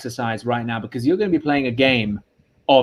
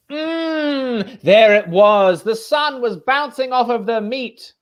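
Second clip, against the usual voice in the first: higher-pitched, relishing storyteller; story narration; 8 semitones higher, slower than usual. Acted. Improviser takes over telling a silly story, relishing narration. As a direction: savour the tale, drawing out the opening.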